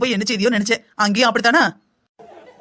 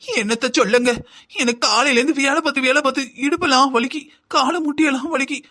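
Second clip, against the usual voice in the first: higher-pitched weary whine about aches; acted woeful grumbling, pitched up; tearful complaining; 4 semitones higher than usual. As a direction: moan about your aching body, half crying. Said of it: "எதுக்கு இப்படி அழுதுகிட்டு இருக்க".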